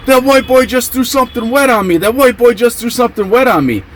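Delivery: high-pitched put-on whine of protest; high, repeated mock protest; mock indignant complaint. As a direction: imitate an outraged victim, high and insistent. Acted complaint of scalded man.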